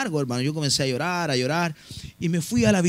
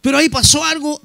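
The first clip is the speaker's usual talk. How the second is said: building wonder; 7 semitones higher, 6 dB louder than usual. Real, not acted. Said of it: "pasó algo maravilloso".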